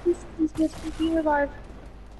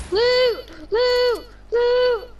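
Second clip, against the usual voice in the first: excited; 5 semitones higher, much slower than usual. Real, not acted. Chanting loot excitedly.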